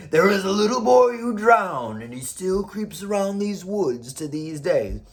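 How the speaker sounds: lightly voiced ghost story, slowing at the end; a hint of a spooky tale told round the fire, easing down; spooky campfire storyteller. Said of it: "Or you say".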